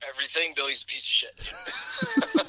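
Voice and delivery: mouth full. Real, not acted. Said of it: "What are you shoving in your face".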